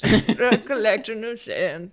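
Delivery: put-on slow, laughing old lady; a slow little-old-lady voice. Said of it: "You saying Collection of Sand in an old lady voice".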